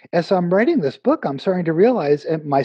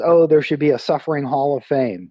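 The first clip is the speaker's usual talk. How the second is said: laughing riff. Retold or imitated. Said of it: "someone says".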